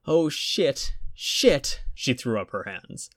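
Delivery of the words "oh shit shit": high, frantic swearing; panicking woman. A narrator's reading. Jennifer panicking over her lost wallet, high and frantic.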